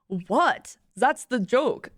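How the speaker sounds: put-on imperfect German accent; attempted German accent. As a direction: defend the joke in a loose German accent. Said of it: "I can't do a German accent".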